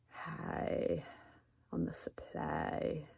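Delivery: breathy secret whisper. Pretend. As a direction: lean in and whisper it. Joking aside about getting high.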